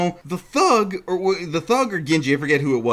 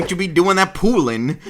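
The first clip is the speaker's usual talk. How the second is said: mock thug; 4 semitones higher, 4 dB louder than usual. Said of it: "I'm just gonna talk like that".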